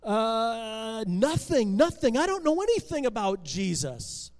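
stall, then deny it nervously; nervous denial. Acted. Benjamin confronted by the angry crowd, nervous denial.

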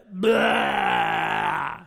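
loud, far, crying outburst; loud blah. Shown as a demonstration. Friend on a rough day dumping on you, loud mock blah. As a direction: spew it out like venting all at once. Miming someone dumping feelings.

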